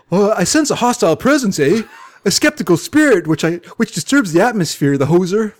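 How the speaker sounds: mystic master with a put-on Canadian accent. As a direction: play up a folksy Canadian accent. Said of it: "Give him a thick Canadian accent".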